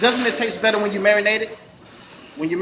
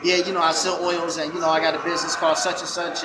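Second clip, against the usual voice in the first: unconfident; 3 semitones lower than usual. Shown as a demonstration. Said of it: "don't talk like this".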